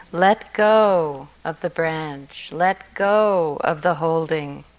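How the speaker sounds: slow, calm gentle urging; gentle advice. Shown as a demonstration. Teacher repeats the story's advice to students, gentle and slow.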